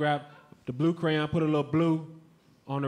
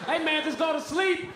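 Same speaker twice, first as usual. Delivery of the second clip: exasperated lecture; 9 semitones higher than usual. Retold or imitated. Comedian lectures crying baby.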